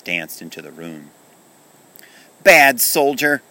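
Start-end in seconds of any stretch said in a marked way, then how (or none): 2.4-3.4 loud, slow, high scolding; angry shout. Acted. Kenny scolding the toy soldier on the ledge, shouted. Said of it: "shouted Kenny".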